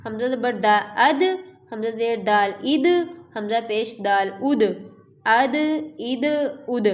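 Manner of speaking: the د in اد bounced with an echo; qalqala echo. Shown as a demonstration. Teacher drilling qalqala daal. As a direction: release the د in اد sharply. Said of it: "دال بھی حروف قلقلہ میں سے ہے".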